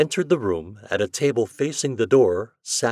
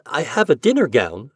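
exclaiming; 4 semitones higher, 4 dB louder than usual. Acted. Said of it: "she exclaimed".

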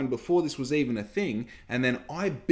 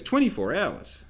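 surprised; 6 semitones higher than usual. Retold or imitated. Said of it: "she goes".

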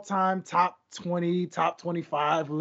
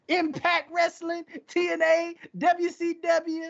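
higher, punchy roll call; hyped callout; 9 semitones higher than usual. Pretend. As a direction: call them all out, gleefully. Playful callout, high pitch.

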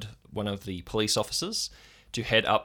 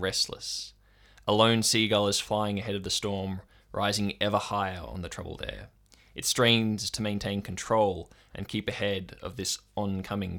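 story narration. A narrator's reading. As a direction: paint the storm for the listeners. Narrator sets the scene.

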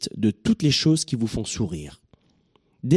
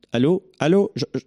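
fake bad phone line; 8 semitones higher, 4 dB louder than usual.

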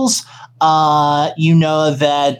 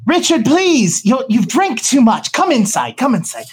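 voice from behind; 6 semitones higher than usual. Acted. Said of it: "a voice from behind going".

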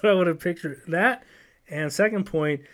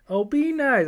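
much higher sing-song voice; lightly voiced sitcom line; mock TV quote; 9 semitones higher, 4 dB louder, slower than usual. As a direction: tease it like the show. Quoting favorite TV line.

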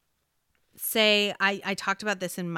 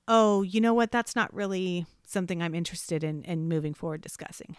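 polite deflection; 5 dB louder than usual. Shown as a demonstration. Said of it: "And so is".

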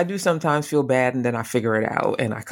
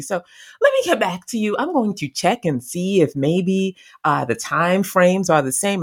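polite excuse; 3 semitones higher than usual. Retold or imitated. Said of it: "Instead, I said".

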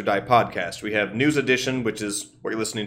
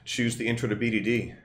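whisper; 5 dB quieter than usual. Pretend. Sneaky plug for own workshop.

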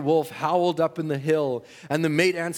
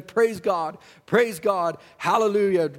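praise shout; 4 semitones higher, 4 dB louder, slower than usual. Retold or imitated. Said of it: "just as hard as I could go".

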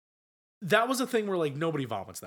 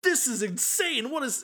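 mock disbelief; 10 semitones higher, 3 dB louder than usual. Acts out viewer's stunned reaction.

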